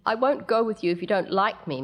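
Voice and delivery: put-on weepy child. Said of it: "Mindy begins to weep".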